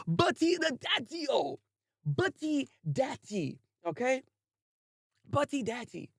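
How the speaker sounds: high, slow mock-savoring of the title; mocking drawl. Real, not acted. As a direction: stretch the silly name out with amusement. Drawls the odd anime title.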